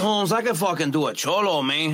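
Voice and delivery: put-on Cholo street accent. Shown as a demonstration. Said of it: "Cholo's good".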